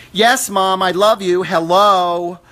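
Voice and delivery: put-on loud, high, bratty teen voice; a sassy daughter brushing off mom; daughter with attitude. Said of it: "she's almost talking with an attitude".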